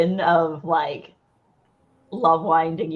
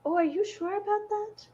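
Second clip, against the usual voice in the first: skeptical; 12 semitones higher, 4 dB quieter than usual. Acted. Doubtful reply to Pirate King.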